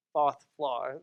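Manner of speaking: Boston accent, dropping the R: "fourth floor" as "fawth flaw". Shown as a demonstration. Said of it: "I'm doing a Boston accent".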